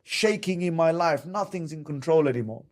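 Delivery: high, laughing mock panic at a shaking world; hammed-up laughing alarm, pitched high. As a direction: play the bewildered man whose life is suddenly out of control. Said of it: "they're like".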